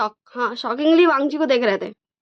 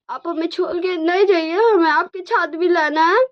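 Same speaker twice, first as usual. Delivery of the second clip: put-on high, louder little-kid pleading; cute child voice; 7 semitones higher, 3 dB louder than usual. Twins asking their dad not to leave them, high cute child voice. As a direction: beg sweetly like a small child.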